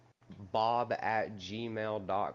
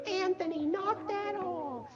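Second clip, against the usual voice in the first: teacher scolding; slower than usual. Retold or imitated. Teacher scolding a disruptive kid.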